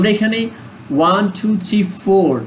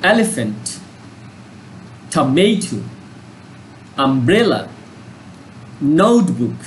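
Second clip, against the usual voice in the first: each word with its marked syllable pressed; stressed model words; 3 semitones lower, slower than usual. Shown as a demonstration. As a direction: say them with the blue part punched. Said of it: "pronounce করতেছি".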